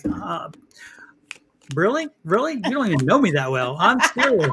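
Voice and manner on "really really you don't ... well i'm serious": sassy woman. Retold or imitated. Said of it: "she just came right through me like".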